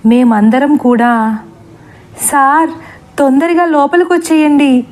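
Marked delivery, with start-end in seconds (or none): 2.2-4.9 higher, mild mock call. Children call the teacher inside, a mild mock yell. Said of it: "అని అరవడం మొదలుపెట్టాం".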